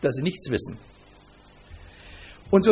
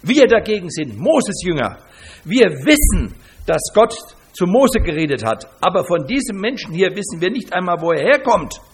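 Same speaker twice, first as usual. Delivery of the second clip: louder, insistent proclaiming; indignant shout; 5 dB louder than usual. Retold or imitated. Pharisees boasting of Moses to the man, loud and insistent. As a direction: declare it loud and sure. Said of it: "schrien sie ihn an".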